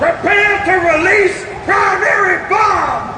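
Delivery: high, loud order; commanding shout. Acted. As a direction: bark the order with full force. Giving the release order.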